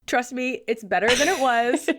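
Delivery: croaky voice from a cold; sick voice. Real, not acted. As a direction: still a bit sick-sounding. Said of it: "apologies once again for my sick voice".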